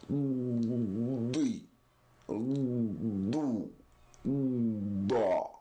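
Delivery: D, Do, Da with cheeks puffed and voiced release; dad demo. Shown as a demonstration. Teacher demonstrating the dad step by step. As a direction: voice it inside the mouth, then release. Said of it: "this is how we pronounce the Dad".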